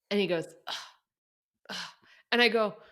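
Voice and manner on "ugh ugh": retold groan. Retold repairman groaning at her answer.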